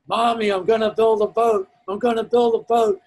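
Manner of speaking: high, loud, imitated kid yell; excited boy shouting. Boy calling to his mom on arrival, excited shout. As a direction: shout it out like an overjoyed little boy. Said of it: "He's shouting at the top of his lungs".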